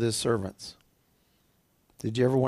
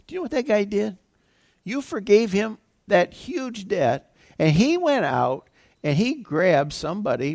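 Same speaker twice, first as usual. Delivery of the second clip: higher-pitched, lightly acted disbelief; indignant tattling; 7 semitones higher than usual. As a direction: report it to the master, drawing out the outrage. Acting servants reporting to master.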